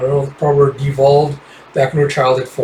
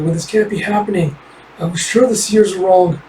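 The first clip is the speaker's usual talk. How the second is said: higher first take; 5 semitones higher than usual. Acted. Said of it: "Tuya is going (repeated)".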